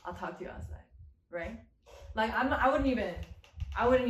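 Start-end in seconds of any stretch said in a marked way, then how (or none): 0.0-1.6 hushed warning, no voice at all; threatening whisper. Pretend. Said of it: "I'll be like".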